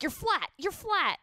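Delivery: high, drawn-out mock complaint; loud mock heckle from dad; imitated critical dad. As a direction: mimic dad calling out a bad note. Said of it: "he'll be like".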